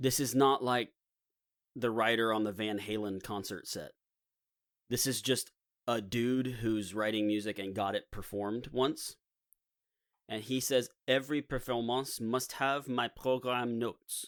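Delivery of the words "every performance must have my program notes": put-on French accent. Quoting Berlioz demanding his program notes: French accent as Berlioz. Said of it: "The accent's the best I can do".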